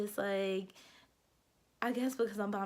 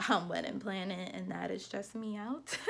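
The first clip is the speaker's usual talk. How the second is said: laugh-cry on the words; half laughing, half wailing about stress; laughing through stress; 4 dB quieter than usual. Real, not acted. Venting about wedding planning to viewers, laughing.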